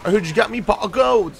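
high, loud coaxing leprechaun voice. Pretend. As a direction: lure it in like a leprechaun. Coaxing the treasure goblin leprechaun.

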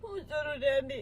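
low, slow, tearful words; quiet sobbing question; crying. Real, not acted. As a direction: choke it out through tears. Girlfriend crying over the ex.

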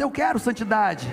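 congregation shout of faith; shouted "Eu quero santidade"; shouted declaration. Pretend. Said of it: "Dá um grito aí".

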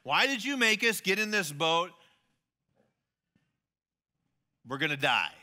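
loud, desperate cry to the teacher; frightened disciples shouting at Jesus; shouting in panic. A narrator's reading. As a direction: shout it over the storm.

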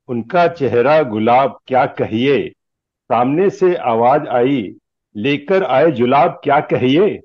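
measured lines with lilting stage delivery; declaimed Hindi humorous verse; comic poem recitation. Acted. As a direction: recite it like verse at a poets' gathering.

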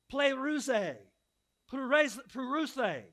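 "pleruse" said slowly and carefully, syllable by syllable; careful Greek pronunciation of "pleruse"; Greek word. Shown as a demonstration. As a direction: sound out "pleruse" like a Greek lesson. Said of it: "For all my Greek scholars".

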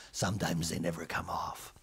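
low, soft sombre voice; grave doctor. Acted. Doctor gravely telling mother, low and soft. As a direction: deliver the bad news gravely.

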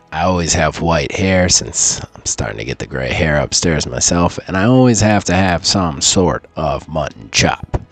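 put-on low gravelly old man voice. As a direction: talk like a crusty old-timer. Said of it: "I got the old man voice going".

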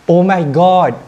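high thrilled cry; excited squeal. Real, not acted. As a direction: gasp out in delight.

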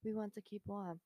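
a hint of Bernie's voice, mostly her own; lightly imitating Bernie's old-man delivery; Bernie impression. Reading Bernie's quote to her co-host, barely voiced as Bernie. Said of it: "I can't do the Bernie voice".

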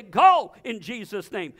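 slow, loud command; firm spoken rebuke. Retold or imitated. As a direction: order the sickness out, slowly. Commanding sickness to leave.

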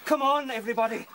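high, loud call to dig; rally everyone to work fast; urgent rallying shout. Acted. Urging rabbits to dig.

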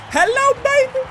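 high, swooping mock flirty hello; hammed-up greeting. Greeting the woman in the game, high hammed-up hello. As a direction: leap up in pitch on a playful greeting.

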